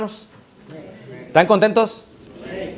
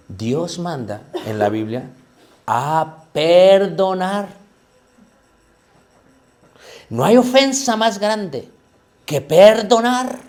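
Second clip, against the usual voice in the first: slow explaining; 2 semitones higher, much slower than usual. Retold or imitated. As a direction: spell it out slowly, word by word. Quoted man explains it very simply.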